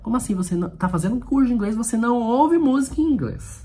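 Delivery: high-pitched teasing indignation; mock disbelief. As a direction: challenge the imagined student in playful outrage, pitch climbing. Mock scolding of imagined student. (incredulidade fingida, em tom agudo de bronca brincalhona)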